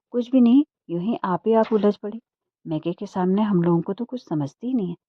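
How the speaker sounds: indignant complaint. Acted. Complaining about sister-in-law to brother.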